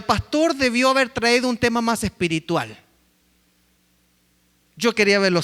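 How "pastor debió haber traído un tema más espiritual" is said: mock complaining churchgoer. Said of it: "O alguno dirá".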